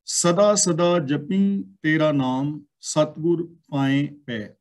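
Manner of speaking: slow, measured verse reading; scripture recitation. Acted. Teacher reading scripture before explaining it, slow measured recitation. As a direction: draw out each word of the verse.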